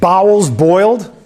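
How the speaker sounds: slow, puzzled echo of the phrase; puzzled repeat. Real, not acted. Pastor echoing a congregant's odd phrase, puzzled. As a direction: question it back in disbelief. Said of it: "Your what?".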